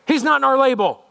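high, mock-petulant elitist voice; grumbling leaders. Leaders sitting there objecting to Jesus, high mock grumble. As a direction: imitate snobs carping in a high voice. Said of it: "they're sitting there going".

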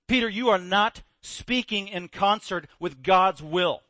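slow, measured rebuke; Jesus correcting Peter slowly and firmly; stern rebuke. Retold or imitated. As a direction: spell out each word firmly. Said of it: "Jesus got angry".

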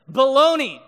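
loud mock yell of a stranger; imitated yell. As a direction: bellow the word like the guy in Walmart. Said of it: "he just yelled".

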